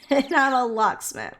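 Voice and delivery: amused repeat after a laugh; laugh, then repeat the punchline. Retold or imitated. Quoting the locksmith answer to both questions, laughing.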